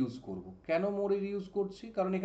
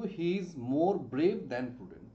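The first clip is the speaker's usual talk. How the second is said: slow dictation; much slower than usual. Shown as a demonstration. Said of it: "তখন আমরা কি লিখবো".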